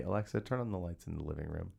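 retold whisper. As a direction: drop low and soft, as if secretly instructing the speaker. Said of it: "I'll just whisper to Alexa".

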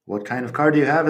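a fast repeat of What kind of car do you have; quick repeat. Shown as a demonstration. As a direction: rattle it off quickly. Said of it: "si digo".

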